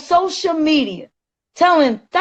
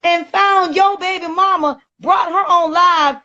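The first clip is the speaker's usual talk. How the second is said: higher, heated rant with a crack of tears; ranting and raving; 6 semitones higher than usual. Real, not acted. On a live stream about the man mocking her son, furious ranting. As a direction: pour out real anger over your son. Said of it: "ranting and raving and getting yourself all up in the uproar".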